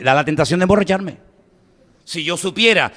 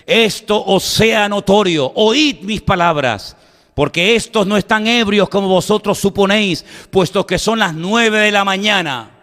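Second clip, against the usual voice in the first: measured, mildly declamatory oration; preacher lightly voicing Peter's public speech; raised-voice proclamation; 4 semitones higher than usual. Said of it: "alzó la voz y les dijo".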